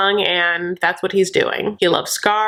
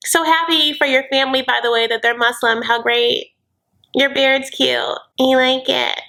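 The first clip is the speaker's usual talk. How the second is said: imitating Brittany; 5 semitones higher than usual. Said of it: "And she's like".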